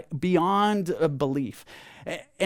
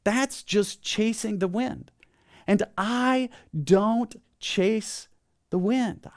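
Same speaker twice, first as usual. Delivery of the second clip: higher, deliberate rallying recitation; group declaration; 4 semitones higher, slower than usual. Shown as a demonstration. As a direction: lead the congregation in saying it, pitched up. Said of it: "Would you say it with me?".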